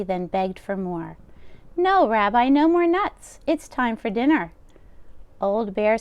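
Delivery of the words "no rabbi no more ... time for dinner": put-on higher, louder fussing old woman; old grandmother voice. Old baba taking the rabbi's coat, high and fussing. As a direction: bustle like a kind deaf baba. Baba voicing lines to Bear.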